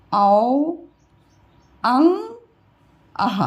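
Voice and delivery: Hindi vowels one by one, short अ, long drawn आ; teacher reciting vowels, pausing after each; vowel pronunciation demo. Shown as a demonstration. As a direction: model each vowel, holding the long ones. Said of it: "ये pronunciation होता है बेटा".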